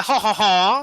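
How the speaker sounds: put-on French chuckle; French laugh. Game master tries the drow as French, mock French laugh. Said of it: "what if he's French instead".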